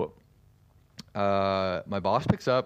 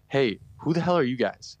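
mock indignant bride, pitched higher; indignant challenge; 5 semitones higher than usual. Bride confronting two strangers at her wedding, indignant. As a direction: challenge them like an affronted bride.

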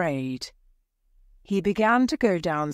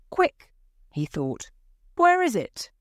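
panicked; 8 semitones higher than usual. A narrator's reading. Panicked search in dark.

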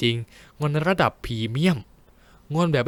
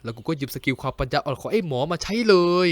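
usual speaking voice

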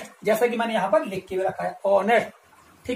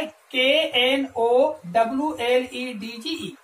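1 slow spelling out; much slower than usual. Shown as a demonstration. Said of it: "next word क्या कह रहा है".

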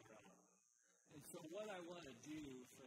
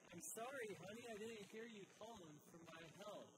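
higher-pitched, put-on husbandly excuse; feigned apology; 6 semitones higher than usual. Husband lying to his wife about not hearing her, feigned apology. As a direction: act out an innocent-sounding excuse, pitched up. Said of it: "bold-faced lie right there".

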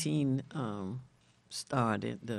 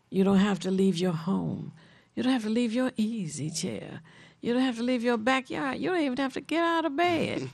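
each "You don't have to" rising higher, climbing to a peak; building sales pitch; 6 semitones higher than usual. Real, not acted. A host urging listeners to join the Saturday phone calls, excitement building to a high peak. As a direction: stack the lines, lifting each one higher than the last.

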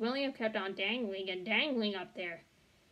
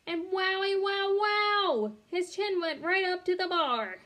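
high, loud sing-song amazement; excited; 8 semitones higher, 4 dB louder than usual. A narrator's reading. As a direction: gush over the wonder. Narrator thrilled at William's success.

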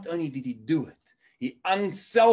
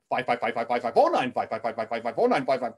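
auctioneer. Retold or imitated. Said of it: "sounds like a professional auctioneer".

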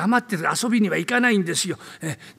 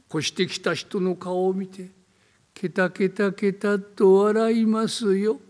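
slow, hushed eerie telling; slow creepy storyteller voice; spooky ghost story narration; slower than usual. Acted. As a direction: draw out the dread of a rainy night.

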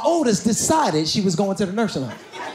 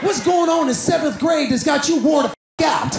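mock exasperated yell; 5 semitones higher than usual. Dad yelling at teen.

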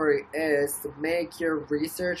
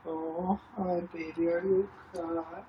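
softer, tender pet talk; 3 semitones higher, 6 dB quieter than usual. Real, not acted. Owner comforting her hurt dog, soft tender baby talk. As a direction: soothe a frightened pet gently.

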